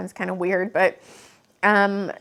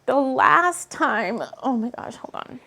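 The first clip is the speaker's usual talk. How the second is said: getting emotional; 3 semitones higher than usual. Real, not acted. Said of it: "I'm gonna get emotional".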